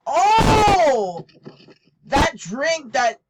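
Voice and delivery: loud, high, shaken exclaim; startled and shaken. Real, not acted. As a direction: still rattled from the shock. Startled by flying drink.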